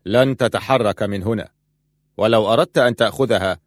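a steady threat, unshaken; firm. Acted. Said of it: "قال إبراهيم في حسم". (بحسم وثبات)

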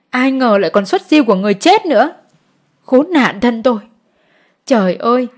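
understated tearful lament; wailing lament. Acted. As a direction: cry out to the heavens in mild grief. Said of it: "chị khóc tru chéo".

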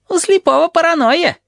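very high teasing voice; Tabaki giggling. A narrator's reading. Tabaki teases about Blind, very high and gleeful. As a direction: snicker it out mischievously. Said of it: "хихикает Табаки".

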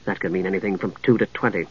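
soft, low resignation; sighing. Acted. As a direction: sigh it out wearily. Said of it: "Palin sighed".

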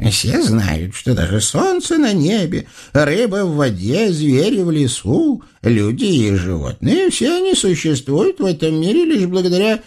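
high, grand, fawning proclamation; ringing solemn voice. Acted. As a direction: proclaim praise like a court flatterer. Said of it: "звонким и торжественным голосом начал старичок".

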